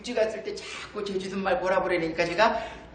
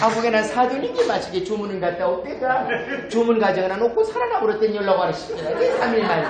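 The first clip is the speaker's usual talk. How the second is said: animated Jeju dialect gossip; Jeju grandmother dialect; faster than usual. Retold or imitated. Grandmother gossiping about a condolence visit, in Jeju dialect. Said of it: "할망 둘이가 막 검질 매다가 합니다".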